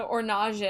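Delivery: ORANGE said as "or-nahzh"; joke mispronunciation. Pretend. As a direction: play ORANGE as if French, or-NAHZH. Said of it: "You probably say".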